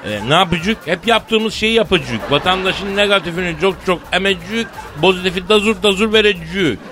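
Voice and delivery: high, hammed-up Anatolian dialect; rustic Turkish accent with rounded endings; Turkish regional accent. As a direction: spout it in broad provincial Turkish. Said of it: "Şiveyi buraya kadar kıvırabiliyoruz canım".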